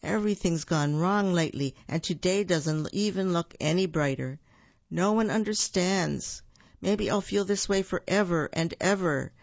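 a touch of mopey sadness; sadly. Acted. Buford tells his friends everything went wrong, mildly gloomy. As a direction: complain like a gloomy bear. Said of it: "Buford said sadly".

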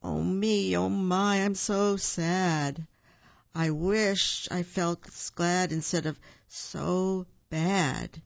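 slow, mournful bear sighing his woes; sighing sadly. Acted. Buford Bear sighs outside his den, slow and mournful. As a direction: droop every word like a moping bear. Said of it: "Buford sat outside his den and sighed".

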